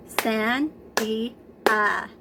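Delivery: "Sandía" slowly as san-dí-a; sandía clapped out. Shown as a demonstration. Teacher claps Spanish "Sandía" for the kids, very slowly. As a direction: say "Sandía" slowly, one clap per syllable. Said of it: "count the syllables in sandía".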